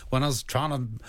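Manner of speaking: broad West Country hedge fund manager, laughing through it; a yokel banker mixing up hedges and hedge funds; broadest West Country accent. Pretend. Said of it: "in your broadest, um, West Country accent".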